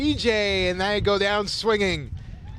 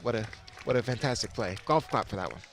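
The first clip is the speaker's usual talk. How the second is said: golf voice; 6 semitones lower, 7 dB quieter than usual. Pretend. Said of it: "gotta use our golf voice".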